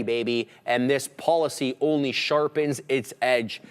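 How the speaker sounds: measured, emphatic promotional read; news ad read. Real, not acted. Host reading sponsor news to viewers, announcer-style ad read.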